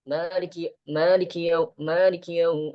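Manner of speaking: maliki yau hurried and clipped; rushed recitation. Shown as a demonstration. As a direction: rush it like a careless reader. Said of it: "cepet-cepet gitu loh".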